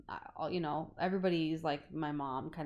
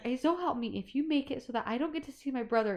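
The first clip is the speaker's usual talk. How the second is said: a touch of an angry outburst, raised and fast; half-hearted retold yelling, pitched up; mild mock yelling; 6 semitones higher than usual. Persephone warns Harry in a mild mock yell. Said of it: "she kinda is yelling at Harry".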